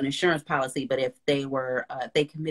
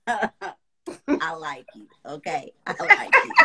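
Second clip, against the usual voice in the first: laughing delight; 3 semitones higher, 4 dB louder, much slower than usual. Real, not acted. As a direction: squeal it through laughter.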